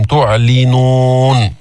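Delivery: slow chanted تعلنون with a distinct "li"; drawn-out تعلنون, crisp li; clear lam kasra. Shown as a demonstration. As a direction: bring out the i after ل in تعلنون. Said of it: "بين كسرة اللام".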